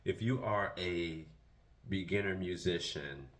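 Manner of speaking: words shaped around retainers; wearing a retainer. Real, not acted. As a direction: retainer in, a bit lisped. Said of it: "got my retainers in".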